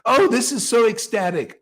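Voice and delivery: high, gushing fake rapture; mock blissful gushing. Mocking devotees who gush about bliss, high sugary voice. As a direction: ham up shallow bliss. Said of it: "how many Vaishnavas say".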